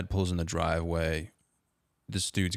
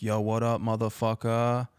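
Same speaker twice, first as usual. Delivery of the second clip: mock scream; 4 semitones higher than usual. Dad yelling from his car window at the kid, taunting shout. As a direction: yell it out the car window as a joke. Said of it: "he just screams".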